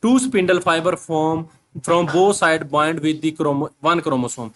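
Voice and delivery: reads the English line very slowly, word by word; slow dictation reading; slow textbook reading. Shown as a demonstration.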